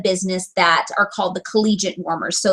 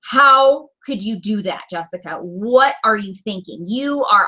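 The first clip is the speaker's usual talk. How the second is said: self-scolding. Retold or imitated. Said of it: "I was like".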